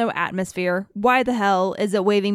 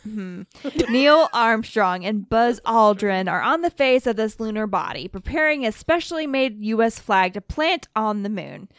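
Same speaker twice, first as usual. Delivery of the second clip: radio broadcaster voice. Acted. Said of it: "your nineteen sixties radio broadcaster voice".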